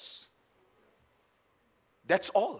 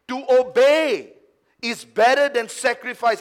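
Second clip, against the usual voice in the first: forceful repeat; 5 semitones higher, 10 dB louder than usual. Acted. Preacher repeating Samuel's words to Saul, forceful. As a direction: hammer the verse home.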